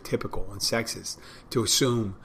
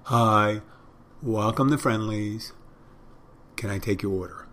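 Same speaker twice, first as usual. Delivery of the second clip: rote greeting. Shown as a demonstration. Server saying the same phrase to every customer, rote. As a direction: drone the stock phrase by habit. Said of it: "Meaning saying the same phrase".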